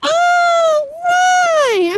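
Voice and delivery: high excited outburst of remembering; sudden realization. Real, not acted. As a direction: shout it as it clicks. Sudden realization mid-conversation.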